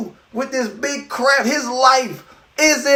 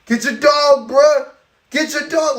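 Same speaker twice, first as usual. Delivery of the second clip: get your dog; 4 semitones higher than usual. Retold or imitated. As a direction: build from nervous to insistent. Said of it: "We're like".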